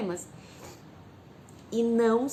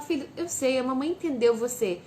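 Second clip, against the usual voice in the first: gentle, understanding. Shown as a demonstration.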